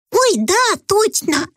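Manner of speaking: high startled oh yes; sudden realization. A narrator's reading. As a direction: catch yourself, remembering. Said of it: "спохватилась принцесса".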